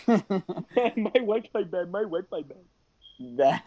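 lagging, stretched bad connection; words dragged by laggy Wi-Fi; choppy connection. Real, not acted. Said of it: "Just 'cause Discord".

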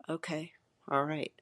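awed breathless whisper. Real, not acted. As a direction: whisper it, startled and wary. Startled after hearing the voice.

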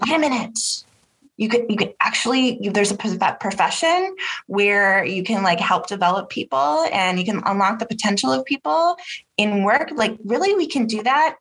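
mock "hold on, really?" surprise; retold amazement. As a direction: replay a moment of pleasant disbelief. Retells her own amazed discovery.

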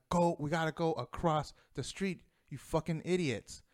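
a retold, somewhat heated outburst at the idiots; frustrated, pushing them across the street; angry. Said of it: "I'm more angry".

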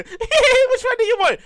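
high, slow cashier voice; cashier girl. Retold or imitated. Popeyes cashier asking his order, high and slow. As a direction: ask sweetly and slowly. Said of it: "She was like".

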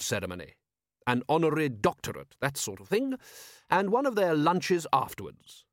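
lightly voiced, smooth ruler; brief them with dry, courtly amusement; urbane patrician. Patrician explaining the prince's visit, urbane and dry.

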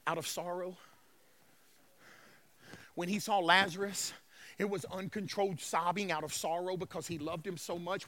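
low, soft, grave scripture telling; solemn preaching. Real, not acted. Preacher tells congregation Jesus wept, solemn and soft. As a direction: bring the room down to a hushed, low register.

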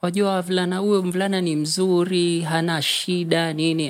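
a hint of a coaxing older sister; imitating sister. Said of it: "my sister is telling me".

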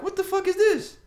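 high, loud yelp of disbelief; mock horror. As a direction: act out an appalled discovery. Acts out discovering blood.

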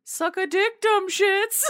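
hammed-up smug jeer; mock taunt. Taunting the people hunting him, a high loud jeer. Mocking persona taunting critics.

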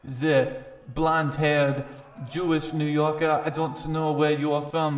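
lightly voiced fight announcer presenting a contender; ring announcer. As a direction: announce the challenger with measured showmanship. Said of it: "He says".

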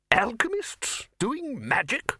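high incredulous outburst. Acted. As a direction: scoff at the very idea. Arch-Chancellor incredulous at the idea.

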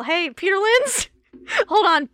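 high, loud playful hail; mock calling out. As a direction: call out in pretend, rising at the end. Calling out to a puppeteer.

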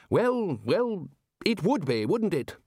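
Ridcully pretending to understand; bluff, amused query; blustering Archchancellor. A narrator's reading. Ridcully voiced.

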